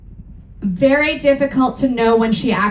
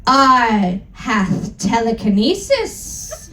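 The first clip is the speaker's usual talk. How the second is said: mock cruel; slower than usual. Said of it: "he answered cruelly".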